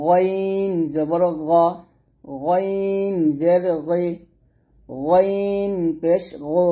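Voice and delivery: গইন জবর গ slow and heavy; thick ghain. Shown as a demonstration. Teacher drilling the thick ghain for students. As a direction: drill each syllable slowly and full. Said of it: "গইন মোটা করবেন".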